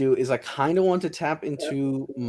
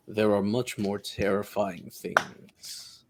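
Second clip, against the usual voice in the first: slow, low, softer demonic whisper; fiend voice; 3 semitones lower, 6 dB quieter, slower than usual. Acted. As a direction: menace them slowly like a devil. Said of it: "sound like a demon, a devil, a fiend".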